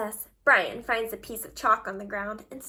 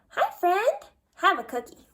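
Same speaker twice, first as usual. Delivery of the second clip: high, cheery greeting; a hero eager to make a new friend; friendly superhero; 5 semitones higher, 4 dB louder than usual. Acted. Superhero making friends drawing.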